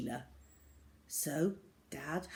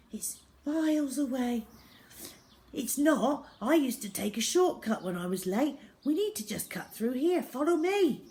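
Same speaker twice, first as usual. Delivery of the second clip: excited shout; 8 semitones higher, 5 dB louder than usual. Acted. Excited running dialogue.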